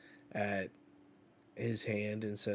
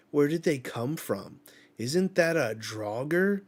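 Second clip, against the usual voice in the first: alarmed; 4 semitones higher, 5 dB louder than usual. Acted. Harden alarmed by monsters.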